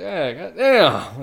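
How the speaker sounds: put-on dazed, cursing drifter; crackhead's exact voice. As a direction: drag the curse out like a man out of his mind. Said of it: "that's his exact voice, by the way".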